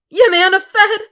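desperate thug. Acted. Thug answering.

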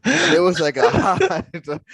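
loud, drawn-out words broken by laughter; real laugh bubbling into the words; laughing through words. Real, not acted. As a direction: crack up mid-phrase. Laughing while retelling the flop.

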